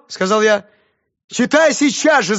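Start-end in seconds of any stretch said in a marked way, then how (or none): 1.3-2.4 high, loud, slow shout; desperate teacher shouting at pupil. Acted. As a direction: yell the order. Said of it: "закричала бедная Раиса Ивановна".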